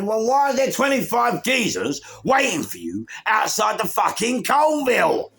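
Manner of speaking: loud, high, insistent question; demanding. Retold or imitated. Narrator demanding answers from Ian, loud and insistent.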